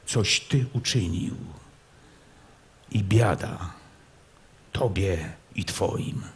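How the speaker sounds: low, slow, menacing restraint; a prince swallowing his fury, speaking low; suppressed anger. Acted. Prince threatens Kmicic, anger held down, low and slow. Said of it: "opanował gniew i rzekł".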